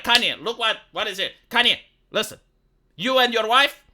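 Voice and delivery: hammed-up righteous lecture, pushed along briskly; mock Bible-waving moralizing. Streamer posing as a Bible-bringing critic lecturing Kanye, mock moralizing. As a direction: play the indignant moralizer admonishing a sinner. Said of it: "you need to bring the Bible and be like".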